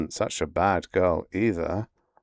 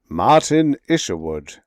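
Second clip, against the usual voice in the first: enthusiastic; 7 dB louder than usual. Acted. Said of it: "he exclaimed enthusiastically".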